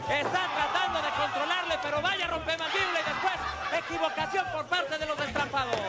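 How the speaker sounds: lively play-by-play ringside call; wrestling commentator. Acted. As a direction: call the match live, caught up in it.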